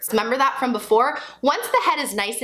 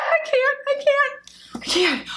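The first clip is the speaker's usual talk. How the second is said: mock overwhelmed; 14 semitones higher than usual.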